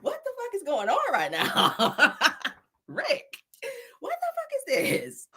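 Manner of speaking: high-pitched words breaking into real laughs; helpless laughter. Real, not acted. Host reacting to a rapper's video, high laughing disbelief. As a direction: squeal it in disbelief while cracking up.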